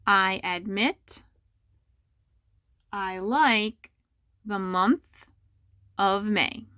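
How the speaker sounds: slow, word-by-word dictation; careful slow dictation to students. Shown as a demonstration. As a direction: read it out slowly so students can write. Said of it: "and I'll say it a few times".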